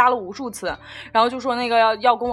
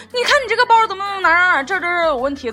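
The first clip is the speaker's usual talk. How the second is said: retold upset complaint; 6 semitones higher, 4 dB louder, faster than usual. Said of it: "他就哭着给我打电话".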